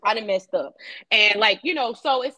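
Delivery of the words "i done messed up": low, man-to-man admission; confessional. Acted. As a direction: own up in a lowered voice. Acts out David owning up.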